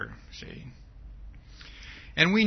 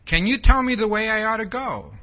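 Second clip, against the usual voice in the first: a hint of an Alice voice, higher and louder; Alice quote, raised and projected; lightly voiced Alice; 4 semitones higher, 7 dB louder than usual. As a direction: lightly act out Alice's question, pitched up. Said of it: "Alice says to the Cheshire Cat".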